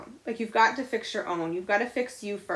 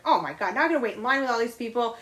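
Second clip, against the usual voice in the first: imitating aggravated shopper; 3 semitones higher, faster than usual. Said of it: "tense and angry and aggravated".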